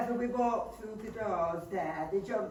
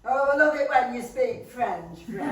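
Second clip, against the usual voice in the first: gushing; 3 semitones higher, 6 dB louder than usual. Acted. Wife gushing over French wine.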